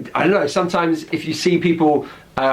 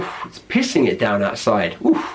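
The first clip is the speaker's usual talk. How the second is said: glum about the rain; 4 semitones lower than usual. Shown as a demonstration. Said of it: "look out the window and go".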